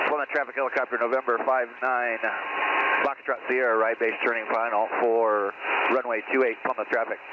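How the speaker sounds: crisp pilot transmission over the radio. Shown as a demonstration. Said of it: "So there's another tip for you".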